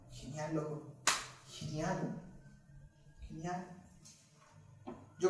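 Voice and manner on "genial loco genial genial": soft, lower and easygoing; casual encouragement. Retold or imitated. Preacher telling a young boy it's great, softly. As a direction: encourage a kid like a buddy.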